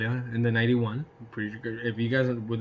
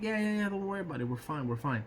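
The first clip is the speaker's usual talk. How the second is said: hushed reassurance; 3 semitones higher, 7 dB quieter, faster than usual. Retold or imitated. Hushing the worried friend.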